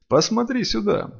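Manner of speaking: plain reading voice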